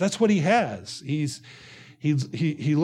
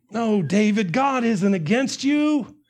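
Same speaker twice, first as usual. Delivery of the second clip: higher, coaxing reassurance, mildly acted; encouraging; 3 semitones higher than usual. Preacher as friend trying to encourage David, higher reassuring voice. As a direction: imitate a friend trying to cheer him up. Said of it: "you intend by saying those things to encourage him".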